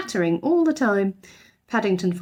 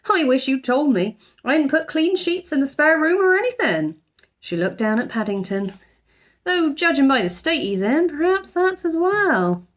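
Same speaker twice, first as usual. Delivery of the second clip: fussing housekeeper; 8 semitones higher than usual. A narrator's reading. Mrs Bird fussing.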